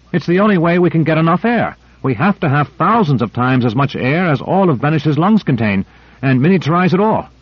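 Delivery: high, gleeful, youthful eagerness; bubbling over with delight; excited. Acted. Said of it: "gay and excited as a youngster".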